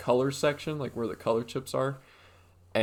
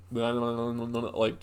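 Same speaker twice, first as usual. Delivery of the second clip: mumbled gibberish. Retold or imitated. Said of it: "Sounded like that".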